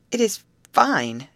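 loud, high and slow; glad declaration. A narrator's reading. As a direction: declare it with delight. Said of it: "declared Molly".

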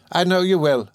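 high, affectionate exclamation; lightly voiced grateful servant; crying out fondly. A narrator's reading. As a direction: exclaim it fondly, pitched well up. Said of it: "cried Peggotty".

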